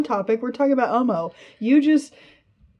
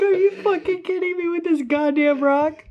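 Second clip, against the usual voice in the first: mock Elmo voice; 10 semitones higher, 4 dB louder than usual. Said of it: "Elmo's like".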